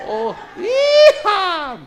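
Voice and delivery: long, high, loud cowboy whoop; mock Texan holler. Shown as a demonstration. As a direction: draw out a hammed-up yeehaw. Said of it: "no es tejano tampoco". (grito tejano fingido, agudo y alargado)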